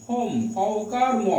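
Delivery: হোম broken slowly into its h and m sounds; sounded-out pronunciation. Shown as a demonstration. Teacher showing the clear h, slowly sounded-out হোম. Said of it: "খেয়াল করো".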